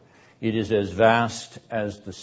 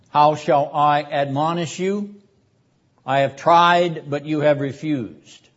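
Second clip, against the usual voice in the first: higher, louder declaiming voice; raised rhetorical reply from the pulpit; impassioned prophetic answer; 4 semitones higher, 5 dB louder than usual. Acted. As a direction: proclaim it as the wounded prophet.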